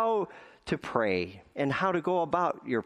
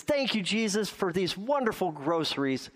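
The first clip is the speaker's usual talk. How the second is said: put-on high, sing-song old lady's thank you; mock old woman praising Jesus; old woman's thanks; 5 semitones higher than usual. Old woman's daily porch prayer.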